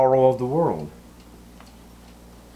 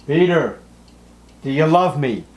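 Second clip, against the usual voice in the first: louder, higher calling out a name; Jesus calling Peter; 3 semitones higher, 5 dB louder than usual. Acted. Risen Jesus asks Peter if he loves him, calling out. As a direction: call him by name and ask earnestly.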